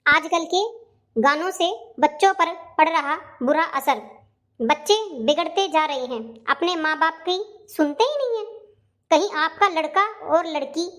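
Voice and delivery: measured announcer read in short chunks; public warning announcement. Acted. Amma reading out a warning about children, measured and formal. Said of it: "ये क्या चेतावनी दे रखी है".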